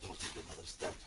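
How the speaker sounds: deep, quiet villain warning; low menacing threat. Acted.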